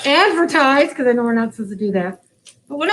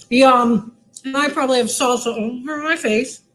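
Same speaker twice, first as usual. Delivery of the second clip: talking through a mouthful; words round a bite of food; mouth full. Real, not acted. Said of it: "mouth full like I just did".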